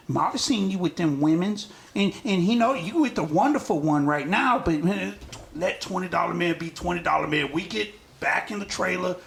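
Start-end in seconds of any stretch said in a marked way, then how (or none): 0.1-7.5 second, more settled go at the voice; lightly voiced go-between talking him round; doing the voice. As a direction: reason with him in a put-on voice. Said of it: "gonna do the voice right".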